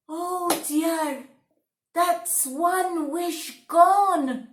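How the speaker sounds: dismayed sigh. Acted. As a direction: mourn the lost wish slowly. Woodcutter dismayed at lost wish.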